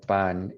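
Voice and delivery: pan with an unaspirated Spanish P. Shown as a demonstration. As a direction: say "pan" with no air on the p. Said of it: "there should be no air coming out".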